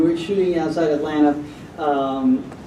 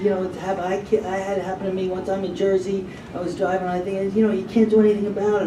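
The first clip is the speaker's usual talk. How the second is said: sympathetic Joe; 3 semitones higher, 6 dB quieter than usual. Retold or imitated. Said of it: "he was so sympathetic".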